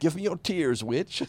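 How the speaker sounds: high, loud hammed-up barbarian demand. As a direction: command it like a warlord. Joining the barbarian bit.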